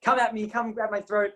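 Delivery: mock challenge, high-pitched; old teacher's challenge. Old teacher daring a student to grab him, lightly imitated high voice. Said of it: "I'm not even gonna bother doing his accent".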